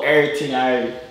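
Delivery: "everything I read" slurred together, falling, Jamaican patois. Shown as a demonstration. Teacher corrects the student in slurred Jamaican patois. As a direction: slur over the words in Jamaican patois. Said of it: "slur over your words".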